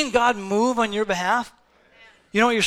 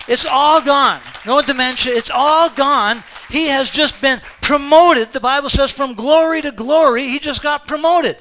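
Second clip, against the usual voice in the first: loud, rising, triumphant; preacher rejoicing over Mike's passing, loud; joyful proclamation; 3 semitones higher, 6 dB louder than usual. Real, not acted. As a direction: celebrate the believer's promotion. Funeral sermon joyful climax.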